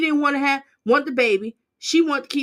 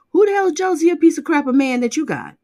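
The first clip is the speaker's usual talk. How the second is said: angry outburst; 4 semitones higher, 7 dB louder, faster than usual. Real, not acted. Angry rant at absent woman.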